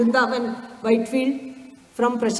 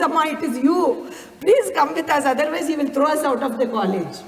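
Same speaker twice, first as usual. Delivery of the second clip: higher, insistent appeal; urgent pleading; 5 semitones higher than usual. Retold or imitated. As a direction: implore her, as retold by a storyteller. Boys plead with the lady.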